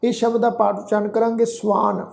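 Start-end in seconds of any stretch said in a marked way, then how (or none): 1.5-2.0 ਸਵਾਨ with s gliding into half v; half-v pronunciation. Shown as a demonstration. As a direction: say ਸਵਾਨ as su-aan. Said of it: "ਸੱਸੇ ਪੈਰ ਤੁਸੀਂ ਦੇਖੋ ਅੱਧਾ ਵਾਹ".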